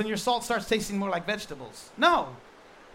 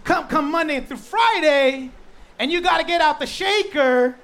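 preacher mocking Christians leaving church on Monday, louder; mock Monday rush; 5 semitones higher, 8 dB louder than usual.

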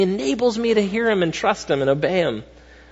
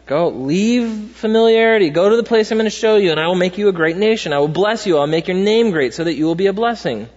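louder, higher commanding call to go; voice of God; 4 semitones higher, 3 dB louder than usual. Retold or imitated. God telling Abraham to leave home, proclaimed louder and higher. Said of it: "This is God talking".

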